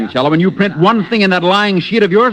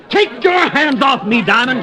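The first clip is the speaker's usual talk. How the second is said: slow, raised protest at the man holding him; angry protest; 5 semitones higher, slower than usual. Acted. Rich man hauled off by waiters, slow and angry. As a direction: shake him off, slowly and hotly.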